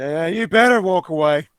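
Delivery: very loud taunting shout. Retelling calling after a man who walked off; retelling raising his voice. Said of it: "I'm raising my voice".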